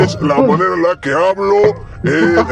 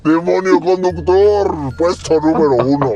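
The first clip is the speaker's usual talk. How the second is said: put-on very old man; 3 semitones higher than usual. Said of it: "Hablar como viejito".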